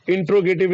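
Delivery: Interrogative said as "in-tro-gative"; mispronunciation demo. Shown as a demonstration. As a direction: drop the middle vowel of Interrogative, so it starts like "intro". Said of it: "is not that".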